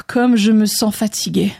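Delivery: lightly sighed weariness; soupir de fatigue. Acted. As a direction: let out a breath, then say it wearily. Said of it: "soupira André". (léger soupir de fatigue)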